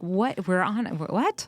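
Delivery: rising, incredulous mock disbelief; imitating her own shock; wife seeing the pills on the plane, incredulous. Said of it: "and I'm like".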